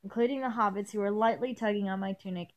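measured first-person story reading; story narration. A narrator's reading. Reader picking up the interrupted tale, story narration. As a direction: read the tale aloud evenly. Reads fan fiction aloud.

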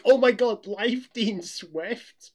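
high, loud fangirl squeal, slow on the name; mock fan shout. Fans spotting the YouTuber recording nearby, loud excited shout. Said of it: "that's what we were shouting".

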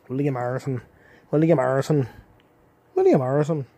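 calling the name out, growing to a shout; building call. Pretend.

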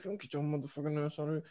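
hushed scolding parent. Retold or imitated. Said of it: "like how a parent be with the kid".

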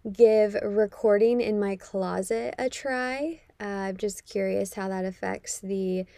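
muffled closet recording; close, dampened closet sound. Real, not acted. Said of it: "I'm sitting here in the dark in my closet".

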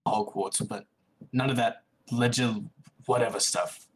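put-on lightly British, edgy boy; grudging reply with a hint of a British accent. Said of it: "don't make fun of my British accent".

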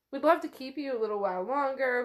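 hurried, smoothing-over delivery; real quick. Acted. Ryan keeping her a little longer after a slip, real quickly. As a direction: say it fast, covering the moment. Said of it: "Ryan says real quickly".

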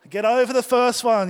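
urgent. Retold or imitated. Frantic paddling over wave.

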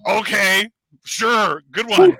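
high, loud sarcastic brush-off; mock dismissive. Speaker brushing off the stranger with loud sarcasm. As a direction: wave it away like they're joking. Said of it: "I'm like".

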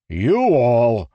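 loud, high barked order. A narrator's reading. Rlain barking orders at the rebel singers. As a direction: snap it out like a sergeant. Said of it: "he barked to Confidence".

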